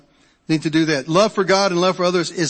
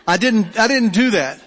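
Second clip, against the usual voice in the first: laughing through the words, a bit higher; 5 semitones higher, 4 dB louder than usual. Real, not acted. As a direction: chuckle while admitting it. Laughs at his own confession.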